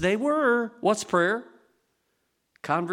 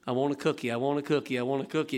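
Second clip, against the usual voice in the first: a hint of a pleading child, softer; whiny kid; 5 semitones lower, 3 dB quieter, faster than usual. Child tugging a sleeve, lightly voiced whining. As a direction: nag like a small child. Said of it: "like the little kid".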